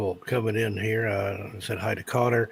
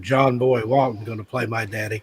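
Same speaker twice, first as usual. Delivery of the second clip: mock indignant son. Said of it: "he swore a little bit more".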